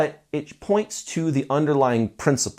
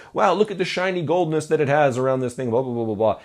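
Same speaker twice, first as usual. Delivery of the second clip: sales voice. Shown as a demonstration. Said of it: "I'm using a sort of cadence with my voice".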